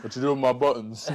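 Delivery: mock Vader, giggling; laughing Vader voice. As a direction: pretend annoyed Vader laughing. Voicing Vader annoyed.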